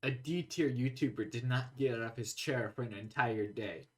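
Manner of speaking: slow, soft medical narrator voice; ominous documentary narrator, slowed down; Chubby Emu parody. Pretend.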